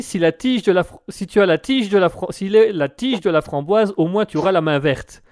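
tripping over the words, restarting twice; a stumbling first read of the listener's pun; stammered. Real, not acted. Host stumbling while reading a listener's message aloud. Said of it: "je l'ai un peu bégayé".

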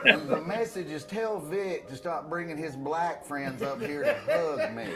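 lightly voiced, slow, baffled mother; drawn-out, puzzled retelling of a message; imitated mom. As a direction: relay a phone message slowly and carefully. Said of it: "she came in the living room and said".

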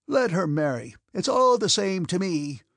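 rising to a high, loud, piercing cry; piercing scream. Acted. Old prince shouts at Prince Vasily about his daughter, piercing. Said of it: "he screamed in the same piercing tone".

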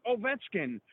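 slow, drawn-out game promo voice; announcer impression. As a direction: hype the matchup like a TV announcer. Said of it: "That was a good impression".

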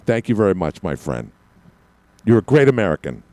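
a light hint of a talk radio host's smooth delivery; barely shifting into a friendly radio host voice; Mark Simone. Host jokingly greeting a caller as Mark Simone, lightly voiced. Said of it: "I just turned into Mark Simone".

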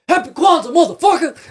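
high, loud mock yell of a greeting. Yelling at strangers from the van window, mock yell. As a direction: belt it out like a prank shout from a van. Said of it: "I screamed it loud and hard".

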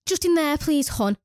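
mock a patronising "hon"; lilting, put-on politeness; imitating condescending colleague. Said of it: "it's the way she says hun".

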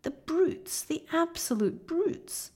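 put-on high, tearful young girl's voice; a hurt child crying out; high young girl speaking through tears. A narrator's reading. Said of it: "tears streaming down her cheeks".

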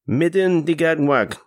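a mild ghostly call from the hunt; crying out. A narrator's reading. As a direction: ring out like a voice from the sky. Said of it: "cries the voice".

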